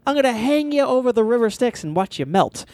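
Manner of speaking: light menacing demon voice. Retold or imitated. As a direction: threaten like a cheesy movie demon. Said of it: "He goes".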